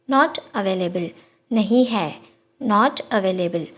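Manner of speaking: slow, careful repeat; slow teacher demo. Shown as a demonstration. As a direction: let every syllable land slowly. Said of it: "slow repeat for learners".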